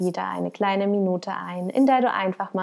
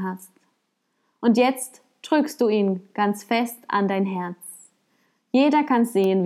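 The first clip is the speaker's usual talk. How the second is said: measured parable reading with deliberate pauses; story narration. Acted. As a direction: read it like a storyteller, unhurried. Reads a parable aloud.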